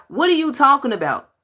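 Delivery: high and quick, can't believe it; exasperated what-are-you-talking-about; incredulous. Real, not acted. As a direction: fire the question back in disbelief. Disbelief at clip.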